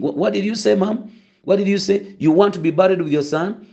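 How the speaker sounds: high, incredulous question; mock surprised pastor. Pastor retelling a colleague stopping the mourner, high mock disbelief. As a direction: pretend shock at her words. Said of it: "he stopped everyone else and he said".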